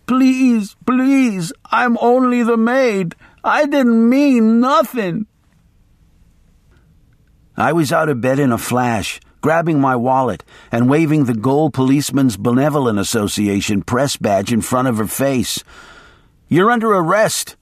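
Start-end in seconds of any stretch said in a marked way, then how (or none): 0.1-5.3 put-on high, pleading old woman voice; pitiful babbling. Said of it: "babbled pitifully". 16.5-17.6 sharp, higher command; shouted. Acted. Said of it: "I shouted".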